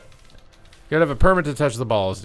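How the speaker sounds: high, loud, squealing hey hey; squeaky mock yelling. Warning the enemy who touches the orb, in a squeaky high-pitched yell. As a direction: squeal at them like a hall monitor.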